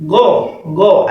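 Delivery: "go" as rounded Arabic gho; Ghayn with fatha. Shown as a demonstration. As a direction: model the syllable "go" twice. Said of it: "that's why going".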